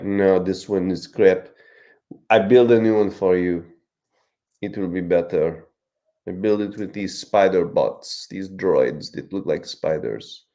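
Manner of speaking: light mock French accent; a loose, hint-of-French accent. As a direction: Luke with a put-on French accent. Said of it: "Why does Luke have a French accent?".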